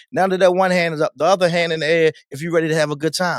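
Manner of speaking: unforced crowd-working MC patter; just talking. Acted. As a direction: guide the party crowd by talking, not shouting. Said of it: "And then I'm just talking".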